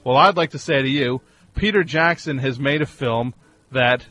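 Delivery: ordinary delivery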